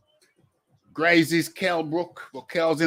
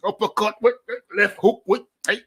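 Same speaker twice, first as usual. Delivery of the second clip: mock sparring yells; 7 semitones higher, 5 dB louder, faster than usual. Pretend sparring, shouting.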